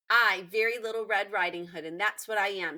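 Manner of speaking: put-on a small girl declaring her name; lightly voiced little girl. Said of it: "said Very Little Red Riding Hood".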